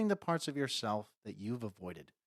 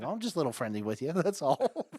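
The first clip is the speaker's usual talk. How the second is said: fast sheepish dog voice; 3 semitones higher than usual. Retold or imitated. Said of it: "He's like".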